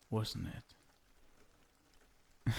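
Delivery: normal talking voice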